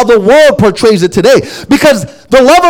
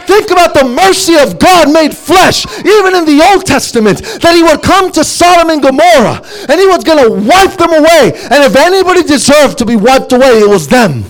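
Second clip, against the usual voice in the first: raised, ringing sermon voice, high and driving; fiery preaching; 3 semitones higher than usual. Acted. Preacher to congregation on God's mercy, in a fervent raised voice. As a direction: preach it out with rising fire.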